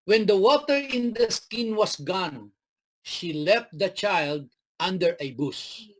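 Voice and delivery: slow, measured Bible reading; unhurried scripture read. Acted. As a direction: read the verse slowly to the congregation. Preacher reads scripture aloud.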